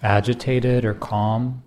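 unhurried meditation guide, long pauses between phrases; guided meditation. Acted. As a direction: gently pose each question, leaving silence after it.

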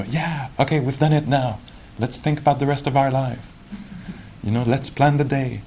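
mock-eager to get on with things; voice of the restless mind. Mind talking to itself once meditation is done, mildly eager. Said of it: "the whole system will go".

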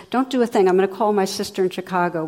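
lightly acted panicky orders, rushing on; upset son. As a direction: retell a son urgently taking charge. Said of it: "the man's really upset".

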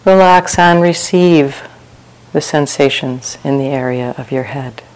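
unhurried meditation guidance with long pauses; guided meditation. Real, not acted. Teacher leading retreat sitters through open awareness, calm guided meditation. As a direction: guide listeners gently into relaxation, phrase by phrase.

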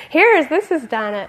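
high, loud words bursting out through laughter; laughing hard. Retold or imitated. Monk throws bananas at friend, laughing high and loud. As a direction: imitate someone helpless with hilarity. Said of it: "He was laughing so hard".

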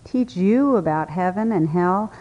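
scornful echo, rising at the end; disdainful. Acted. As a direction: throw his words back with contempt. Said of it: "replied with utter disdain".

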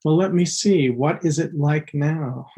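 lightly curious, slowing into the question; open curiosity. Acted. Meditation teacher voicing an attitude of openness, mildly curious. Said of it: "openness and exploration and curiosity".

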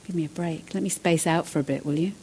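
tired, give-up voice; weary plea. Retold or imitated. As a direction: sigh it out like you've had enough.

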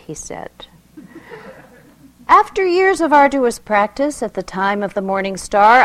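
expressive poetry reading; poem reading. Acted. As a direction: read it like a sacred story. Reads a mystical poem aloud.

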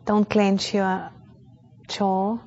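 calm, measured meditation guide with long pauses; unhurried, even-toned meditation instruction; guided meditation. Real, not acted. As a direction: guide a group gently into awareness, leaving space between phrases.

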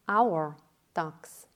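"our" set apart and emphasized; stress on "our". Real, not acted. Teacher comparing us to the man, stressing "our". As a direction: lean on "our", then drop on "ducks".

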